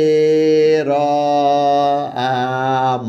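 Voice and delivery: spelled out এ র আ ম with long pauses; sound by sound. Shown as a demonstration. Teacher spelling out গেরাম sound by sound for the class. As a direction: spell the sounds one at a time. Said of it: "উচ্চারণ করি গ".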